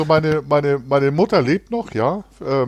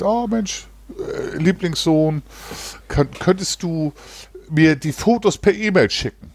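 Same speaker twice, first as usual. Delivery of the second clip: higher, slower mock mother's voice, pleading sweetly; imitating his mother; 4 semitones higher than usual. Son mimics his mother asking for photos, higher sweet voice. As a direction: play the doting mum asking her favourite son.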